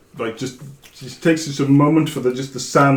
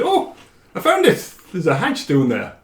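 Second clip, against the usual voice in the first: attempted Welsh accent; 3 semitones higher than usual. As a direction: play the character in a shaky Welsh accent. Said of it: "this Welsh accent that's about to happen".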